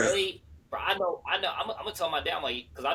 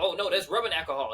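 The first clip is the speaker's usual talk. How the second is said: mock alarmed actor quote; 5 semitones higher, 5 dB louder than usual. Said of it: "He's like".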